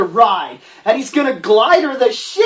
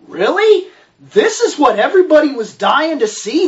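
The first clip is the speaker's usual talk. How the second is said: disbelieving really; 4 semitones higher than usual. Real, not acted. Disbelief at the movie.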